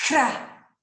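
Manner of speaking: Cra com o C e o R bem marcados; sílaba demonstrada. Shown as a demonstration. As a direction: articule Cra lenta e claramente. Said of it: "Ó o som do C". (Cra bem articulado)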